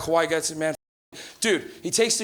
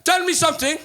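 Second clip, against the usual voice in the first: curious Portuguese dad; 7 semitones higher than usual. Retold or imitated. Dad asking son about points, accented and curious. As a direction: puzzle it out sincerely. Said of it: "He goes".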